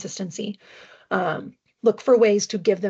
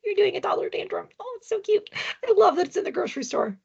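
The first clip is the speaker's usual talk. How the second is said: put-on much higher, cooing baby-talk voice; mock cooing; 13 semitones higher than usual. Mother coos at her toddler's grocery store tantrum, much higher mock sweetness. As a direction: coo at the tantrum like it's adorable. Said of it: "To keep it a little more comical".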